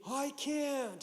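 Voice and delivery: high, loud mock-terrified cry; retold shriek of refusal; imitated scream. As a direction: scream it as a panicked first-time jumper, acted. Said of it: "you hear her scream".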